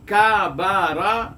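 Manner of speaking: کابارا drawn out very slowly, every vowel an open a; slow Arabic word. Shown as a demonstration. Teacher reminding students of the word: slow, careful کابارا. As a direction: dictate کابارا syllable by syllable. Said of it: "ایک لفظ ہے کابارا".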